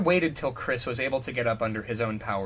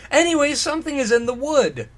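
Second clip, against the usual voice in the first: mock ominous; 11 semitones higher, 6 dB louder than usual. Mock-ominous chapter title.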